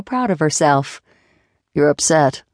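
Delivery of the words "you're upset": deadpan. Acted. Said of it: "Jason said deadpan".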